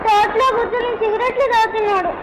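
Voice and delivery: whining through tears; tearful complaint. Acted. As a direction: draw out the words in a crying child's wail. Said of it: "ఎందుకమ్మా ఏడుస్తున్నావు". (ఏడుస్తూ ఫిర్యాదు)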